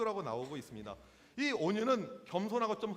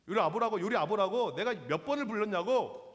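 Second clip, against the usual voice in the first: louder, insistent mock complaint; imitated angry shouting; 4 dB louder than usual. Angry customer summoning an employee, imitated irritated shouting. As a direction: scold the waiter for not coming. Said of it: "계속해서 소리를 지르고 있습니다".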